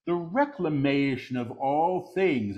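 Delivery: deliberate full-voice repeat; measured proclamation. Real, not acted. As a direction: proclaim it clearly, word by word. Same words repeated in full voice.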